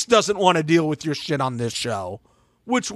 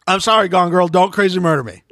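mock plea; 2 semitones higher, 4 dB louder than usual. Mock plea to absent contestant.

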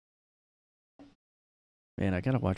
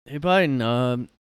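mock reporter; 3 semitones higher, 4 dB louder than usual.

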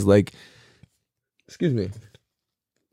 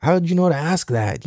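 retold amazement; 5 semitones higher than usual. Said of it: "I'm like".

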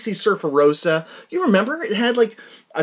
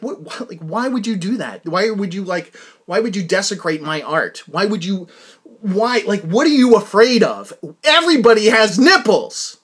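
mock outraged protest building to louder lines; voicing an insulted artist, getting louder; imagined outrage; 2 semitones higher, 5 dB louder than usual. Host imagining a singer's reply to the blurring, indignant and rising. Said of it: "I'd be like".

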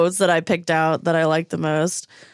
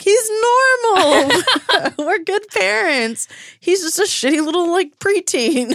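high, slow words broken by laughter; relieved laughing; 12 semitones higher than usual. Retold or imitated. Frasier and Lilith relieved their son is normal, laughing. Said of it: "they're both like".

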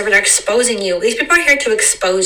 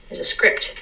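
There's a script whispered softly; 5 dB quieter than usual. Shown as a demonstration. Host hinting at life's hidden script, whispered. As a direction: breathe There's a script like a secret.

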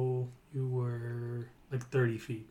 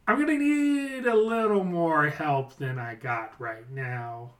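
goblin boss; 3 semitones higher than usual. Acted. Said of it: "And he's like".

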